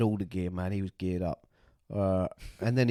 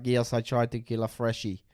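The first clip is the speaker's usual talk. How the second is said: put-on Russian accent. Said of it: "I think he's Russian".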